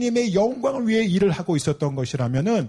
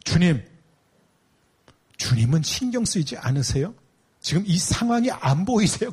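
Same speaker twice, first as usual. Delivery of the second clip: complaining Martha. Acted. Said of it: "마르다가 주님한테 뭐라 그러죠?".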